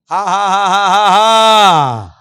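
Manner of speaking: booming ha ha ha, very loud and slow; hammed-up belly laugh for the crowd; loud forced laugh. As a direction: lead the room in a huge drawn-out laugh. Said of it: "हंसो".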